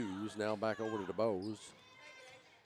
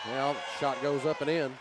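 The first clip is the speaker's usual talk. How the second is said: louder, higher call as the basket drops; excited play-by-play; 4 semitones higher, 6 dB louder than usual. Real, not acted. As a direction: lift the voice for a made shot. Calls a basket going in.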